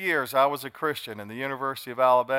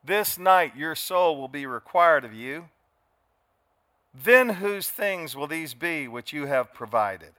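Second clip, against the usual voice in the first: slow, grave divine warning; solemn voice of Christ; 3 dB louder, slower than usual. Acted. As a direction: pronounce judgment slowly and gravely. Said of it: "He's talking to the guy".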